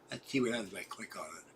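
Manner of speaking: quick whispered mutter to himself; fast whispered aside while clicking the logo. Real, not acted.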